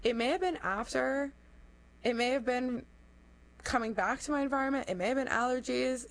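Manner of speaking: stuffy, blocked nose; congested. Real, not acted. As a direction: talk through a head cold. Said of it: "I sound a little congested".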